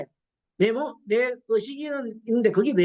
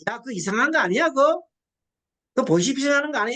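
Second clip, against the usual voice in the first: mildly raised, quick worried husband; a hint of a husband suspecting a scam; husband's alarmed quote; 4 semitones higher, 3 dB louder than usual. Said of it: "이렇게 되는 거예요". (보이스피싱을 의심하는 남편 흉내, 약간 높고 빠르게)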